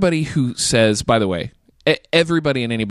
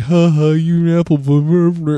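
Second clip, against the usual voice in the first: mock teasing; 5 semitones higher, 5 dB louder than usual. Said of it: "it's not like".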